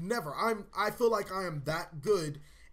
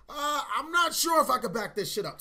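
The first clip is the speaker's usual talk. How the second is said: mock whimper; 6 semitones higher, 3 dB louder than usual. Fearful inner reply, shoulder injury.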